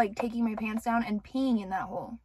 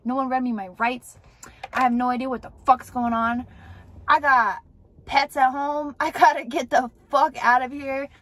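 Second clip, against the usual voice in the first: mildly raised, indignant mock yelling; retold yelling. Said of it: "I woke up yelling".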